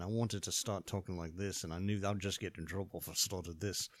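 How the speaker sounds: lightly put-on English accent; hint of English accent. Shown as a demonstration. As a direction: slip briefly into an English accent. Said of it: "as soon as we got to England".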